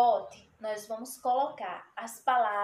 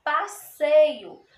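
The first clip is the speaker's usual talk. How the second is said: 1 emphatic; 3 semitones higher, 6 dB louder than usual. Shown as a demonstration. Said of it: "tem dois S's".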